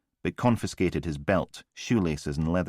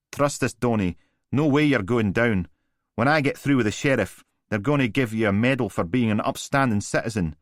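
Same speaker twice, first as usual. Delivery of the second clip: lightly voiced, higher boastful lawyer; smug lawyer; 5 semitones higher, 4 dB louder than usual. A narrator's reading. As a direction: brag like a slick brief.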